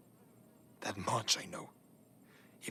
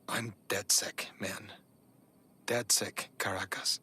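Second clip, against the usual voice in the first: whispering; 2 semitones lower than usual. Acted. Confessing secret identity quietly.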